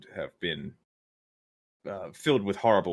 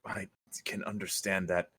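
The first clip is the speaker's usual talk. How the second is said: whispered; 7 dB quieter than usual. Real, not acted. Whispered reply.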